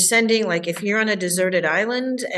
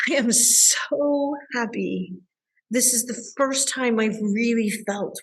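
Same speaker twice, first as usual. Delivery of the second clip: overjoyed; 3 semitones higher than usual. Retold or imitated. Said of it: "clients ... going".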